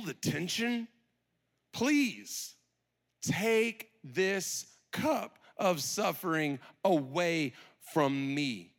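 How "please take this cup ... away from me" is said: anguished plea. Acted. Prayer repeated slowly for tension.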